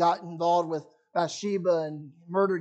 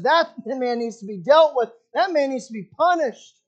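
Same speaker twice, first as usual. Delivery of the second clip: angry; 4 semitones higher than usual. Retold or imitated. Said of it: "just full of anger and frustration".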